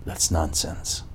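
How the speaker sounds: slow, quiet dismissive whisper. Real, not acted. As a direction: wave it off softly and slowly. Dismisses the quoted view.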